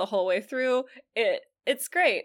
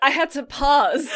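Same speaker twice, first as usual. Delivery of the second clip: laughing; 4 semitones higher, 6 dB louder than usual. Real, not acted. Laughing at the punchline.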